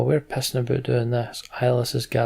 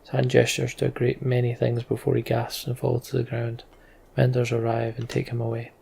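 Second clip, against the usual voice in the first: story narration. Acted. Reads game story text aloud.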